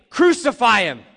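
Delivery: loud, high "Crucify" shouted; mock mob shout. Shown as a demonstration. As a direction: yell it like the crowd before Pilate. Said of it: "Now, I want you to say".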